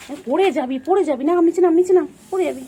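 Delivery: high, loud cries of you'll fall, get down; alarmed warning shout. Real, not acted. Owner warning the pet not to fall, loud high alarmed shout. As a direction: call out sharply to stop the pet falling.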